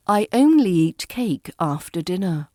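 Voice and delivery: "only" given a little extra weight; stress on only. Shown as a demonstration. Teacher repeating the model sentence, stress on only. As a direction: lean on "only", let the rest fall. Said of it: "Only usually carries a slightly stronger stress".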